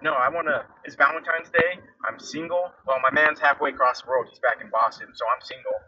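high-pitched mock Boston woman; terrible Boston accent. Boston woman declaring herself single on Valentine's Day, bad Boston accent. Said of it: "excuse my terrible Boston accent".

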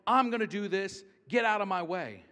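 loud, brash mock quote; hammed-up bossy impatience; pushy brush-off. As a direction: shove people aside with your voice. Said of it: "this is not Jesus just simply going".

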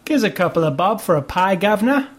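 playful put-on Cockney urchin accent, governor rising at the end; hamming up a Cockney street kid, lightly; mock Cockney chimney sweep. Teasing his co-host about British child actors, in a mock Cockney accent. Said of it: "Did you talk like that".

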